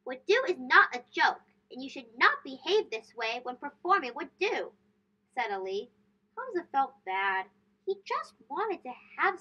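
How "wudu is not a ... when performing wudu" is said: not amused. Acted. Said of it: "Ali was not amused".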